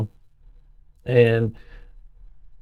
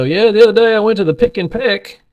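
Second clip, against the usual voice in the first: voicing grandpa; 10 semitones higher than usual. Grandson imitating his grandpa telling about shopping, high voice. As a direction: play the old man mangling a store name. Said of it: "He would just make up words".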